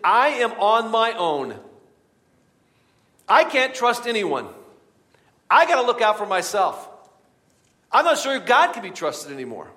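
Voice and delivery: slow, loud stubborn self-talk; inner lies. Retold or imitated. The bitter voice in our heads, slow and loud. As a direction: dig in, alone against everyone. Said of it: "We start to believe this".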